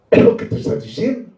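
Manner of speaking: hushed whispered repeat, fast. Acted. Preacher to the congregation, repeating his point in a whisper. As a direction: breathe it to the congregation like a secret.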